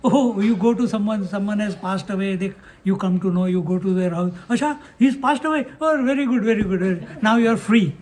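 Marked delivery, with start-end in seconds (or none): 4.5-7.9 mock cheerful condolence. Shown as a demonstration. Mocking a tactless condolence.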